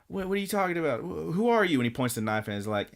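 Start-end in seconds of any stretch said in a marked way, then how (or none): 0.1-1.8 high-pitched mock alarm; startled boy. Boy challenging a strange bunny person, high startled voice. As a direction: stammer it high, as a startled kid.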